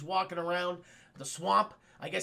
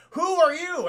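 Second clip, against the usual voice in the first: higher, louder, dazzled; mock princess; 8 semitones higher, 8 dB louder, slower than usual. Andromeda asks Perseus who he is, high and dazzled. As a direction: ask it starstruck.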